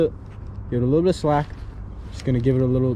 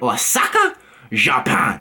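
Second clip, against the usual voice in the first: attempted Japanese accent; 2 semitones lower, slower than usual. Vlogger running through list of cities, Japanese accent. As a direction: imitate a Japanese accent for the place names. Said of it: "change my voice and do some impressions".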